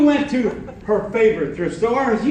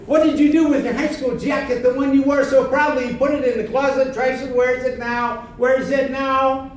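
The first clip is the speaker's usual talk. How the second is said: fast, pressing, slightly higher accusation; accusing jacket; 4 semitones higher, faster than usual. Acted. High school jacket accusing its owner, fast and pressing. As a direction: rattle off the charges and demand an answer.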